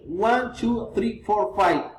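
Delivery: counting with lifted items; enumerating, each number held up until "five"; rising list intonation. Shown as a demonstration. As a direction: raise "One", "two", "three", "four" before closing on "five".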